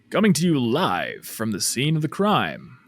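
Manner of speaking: a light mock newscaster read; news presenter voice. Shown as a demonstration. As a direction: lightly play a TV reporter live from the scene. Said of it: "this weird presentery voice".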